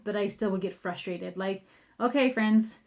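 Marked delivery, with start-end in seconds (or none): 2.0-2.8 mildly grumpy mom, not yelling. Retold or imitated. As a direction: hold back the yell but let some frustration show. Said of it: "like your grumpy mom voice".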